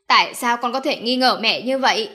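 loud, indignant retort; angered mother. Acted. Mother retorting angrily to her accusing son. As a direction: hit back, stung and angry. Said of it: "Bà Uông bị chọc giận".

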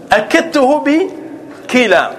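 very slow, each syllable stretched; slow emphasis on أكدته; drawn-out explanation. Shown as a demonstration. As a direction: stretch it out so students catch it. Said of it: "teacher stretching explanation".

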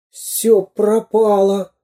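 high, slow lament; plaintive little storybook voice; despairing thought. A narrator's reading. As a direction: lose all hope, drawn out. Character thinks all is lost.

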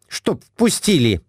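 high, fretful wife's voice; Глафира, high. A narrator's reading. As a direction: voice her up high and anxious. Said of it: "отвечала Глафира Семёновна". (высокий капризный голос жены)

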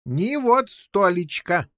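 slow, high exclamation; excited cry. A narrator's reading. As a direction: cry it out, full of important news. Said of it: "закричал король Пеленор". (возбуждённый выкрик)

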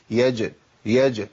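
slow "يا ج", jim released gently without force; light qalqala. Shown as a demonstration. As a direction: let the jim bounce out easily in "يا ج". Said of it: "مع سهولة خروج الحرف".

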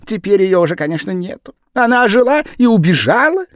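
very high, loud, rushed patter; fast-talking Japanese man. A narrator's reading. The Japanese man pattering at the gentleman, high and loud. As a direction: talk him round in a rush.

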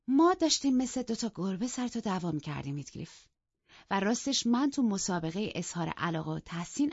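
mock the rivalry with relish; playful mockery.

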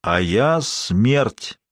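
very slow, looming voice of death; thunderous voice. Acted. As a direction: drag each word out, ominous. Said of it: "раздался громоподобный голос".

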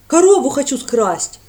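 loud, slow, eager admission; ready confession. A narrator's reading. Lad confesses to the priest, loud and willing. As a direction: blurt it out cheerfully. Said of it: "с готовностью повинился Конопатый".

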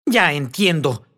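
slow, roaring through the words; a slow, menacing roar; low roar. A narrator's reading. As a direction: bellow it like a wounded beast. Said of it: "con una especie de bramido".

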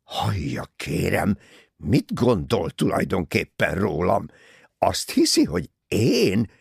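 outraged, loud and high, dragging out key words; indignant fury. A narrator's reading. Bessner defending himself against a murder suspicion, furious. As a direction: thunder with offended pride. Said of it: "Bessner dühösen becsukta a táskáját".

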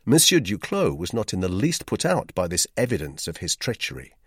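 usual speaking voice

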